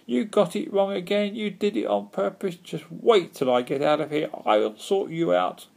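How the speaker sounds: high-pitched witch's tirade; threatening screech at a bungling companion; angry shrieking. A narrator's reading. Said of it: "she shrieked up at the gull".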